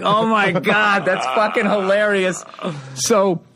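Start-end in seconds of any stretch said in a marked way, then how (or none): 0.0-2.4 slow, high, half-laughing; comic relishing the heckle, slow and half-laughing; amazed delight. Retold or imitated. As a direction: savor the heckle in slow disbelief. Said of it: "I was like".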